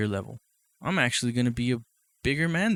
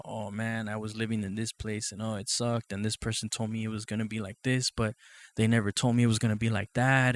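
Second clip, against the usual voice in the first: mocking dad's complaint. Son mimicking his complaining dad, a touch whiny. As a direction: lightly mimic his griping. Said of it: "he would constantly talk about how".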